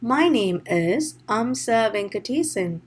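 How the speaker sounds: "My name is Amsa Venkatesan" slowly, with marked stresses; deliberate, stressed "Amsa Venkatesan"; sentence stress demo. Shown as a demonstration. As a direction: lean on the key words in "My name is Amsa Venkatesan". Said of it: "you have to know where to place".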